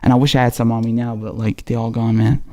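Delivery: raspy, dry-throated voice. Real, not acted. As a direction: talk through a scratchy throat. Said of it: "tolerate my raspy ass voice".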